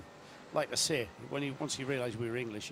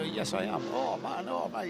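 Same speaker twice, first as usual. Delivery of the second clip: retold starstruck reaction; 6 semitones higher than usual. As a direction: imitate a thrilled fan, pitched up. Retold starstruck exchange with Ryan.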